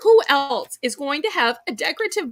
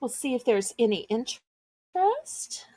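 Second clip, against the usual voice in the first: hushed whisper, no voice; 3 dB quieter than usual. Real, not acted. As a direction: breathe it out as a whisper. Same line said again, whispered.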